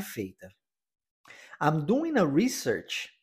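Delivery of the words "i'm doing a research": slow natural "I'm doing a research" with a linked "doing a"; slow model sentence. Shown as a demonstration. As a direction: model it slowly for repetition. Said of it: "vamos repetir a frase". (frase modelo devagar para repetir)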